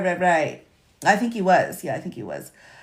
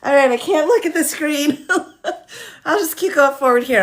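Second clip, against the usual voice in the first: laughing while talking; 7 semitones higher than usual. Real, not acted. Laughing at screen image.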